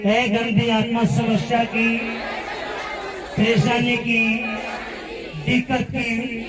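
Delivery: preacher modelling a deliverance prayer; rebuke prayer. Shown as a demonstration. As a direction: lead the congregation in rebuking the spirit. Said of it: "अपनी जुबान को खोलेंगे और कहेंगे".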